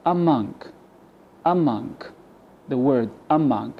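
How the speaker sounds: "among" opening on a weak uh; schwa in among. Shown as a demonstration. Teacher models the word for learners, schwa in "among". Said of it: "we replaced the A with a schwa".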